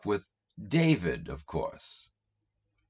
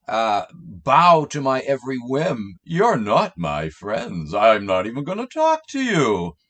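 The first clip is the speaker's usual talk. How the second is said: mock petty Jesus. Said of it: "In other words".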